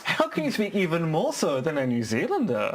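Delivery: questioning lilt peaking on New Zealander; overdone Kiwi rising terminal on Zealander; exaggerated uptalk. Shown as a demonstration. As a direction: swoop up high on ZEALANDER. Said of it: "known for the rising terminal".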